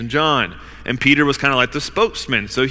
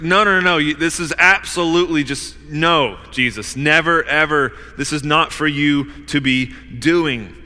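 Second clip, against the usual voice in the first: forceful refusal. Acted. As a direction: shut Jesus down firmly. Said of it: "That's kind of the force here".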